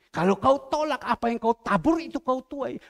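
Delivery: the Lord warns sharply; stern warning. Acted. The Lord warns the pastor about reaping what he sows, loud and stern.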